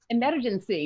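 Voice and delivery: Emergency with every syllable tasted, Scottish rolled r; Scottish accent on Emergency, each syllable spelt out; savoured Scottish word. Shown as a demonstration. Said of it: "You can taste every syllable".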